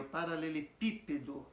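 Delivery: "paralelepípedo" with a strong "pí"; stress on PI. Shown as a demonstration. Teacher giving a long word example, stressing "pí" in "paralelepípedo". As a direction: land hard on "pí" in "paralelepípedo". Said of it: "esse pi é mais forte".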